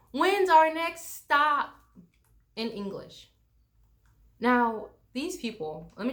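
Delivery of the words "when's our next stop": slow, loud tourist question; over-enunciated loud question to a foreigner; loud, slow and higher, as if to someone deaf. Retold or imitated. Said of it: "said really loudly".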